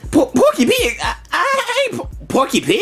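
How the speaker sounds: laughing stammered denial; stuttering cartoon pig. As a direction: stammer through the name. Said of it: "you sound like Porky Pig".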